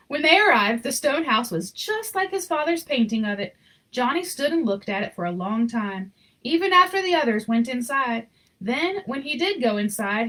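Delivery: gentle read-aloud storyteller voice; story narration. A narrator's reading. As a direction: read it like a bedtime picture book. Reading picture book aloud.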